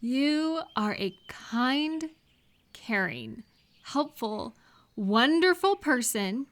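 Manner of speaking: slow, deliberate compliments; savouring each word of praise; sincere praise. Acted. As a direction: lay each kind word down slowly. Affirming the friend's worth.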